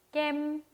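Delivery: 깸 held high and level; high, long tone. Shown as a demonstration. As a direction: stretch 깸 on one steady high note. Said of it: "높고 길게 읽어주시면 됩니다".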